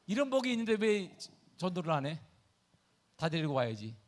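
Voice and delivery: ordinary delivery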